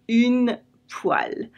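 "Une poêle" whispered slowly, /yn pwal/; a slow, whispered echo of the word. Shown as a demonstration.

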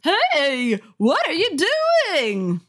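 high, loud, shrill demand; shrill angry mother. A narrator's reading. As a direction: snap at the kid like a furious mom. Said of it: "her voice shrill and angry".

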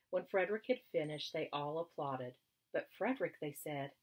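gentle read-aloud storytelling voice; story narration. A narrator's reading. Teacher reading a story to young children, storytelling tone. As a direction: read it like a picture book to kids.

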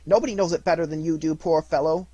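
high, loud sarcastic scorn; bitter wife. Acted. Mrs Cratchit scorns Scrooge to her husband, loud and bitter. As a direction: lash out at the miser. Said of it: "said she".

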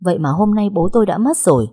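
usual speaking voice

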